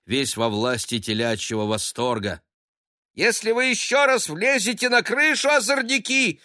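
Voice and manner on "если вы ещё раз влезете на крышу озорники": high, loud scolding shout. A narrator's reading. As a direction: call down at the boys. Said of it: "кричала сверху сиделка".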